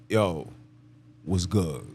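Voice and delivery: low, smooth-talking singer's greeting; lightly voiced R&B crooner, low and easy; an R&B singer. Shown as a demonstration. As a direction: drop the pitch, say it with flavor. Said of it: "make it sound like an R&B singer".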